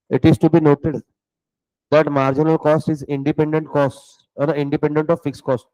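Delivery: very slow note-taking dictation; teacher dictating a definition slowly. Acted. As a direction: spell it out word by word for students to write. Dictates notes to class.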